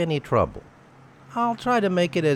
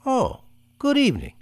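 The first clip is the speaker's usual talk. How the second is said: false cheer. Acted. Killer greeting the doctor with fake friendliness. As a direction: play the charming stranger at the door.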